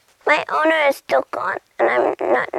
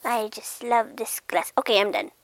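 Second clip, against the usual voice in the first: near-whispered contentment; very soft, savoring each touch; entranced; 6 dB quieter than usual. Acted. Cat loving the glass it touches, hushed.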